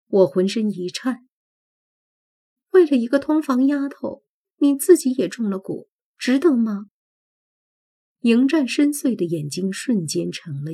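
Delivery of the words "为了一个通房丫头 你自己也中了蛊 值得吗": high, louder, indignant questioning; agitated challenge. Acted. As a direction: press him hard. Heroine challenges him. (激动质问)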